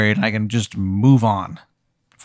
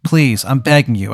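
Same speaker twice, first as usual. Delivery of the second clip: begging ghost; 6 semitones higher than usual. Acted. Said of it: "He's like".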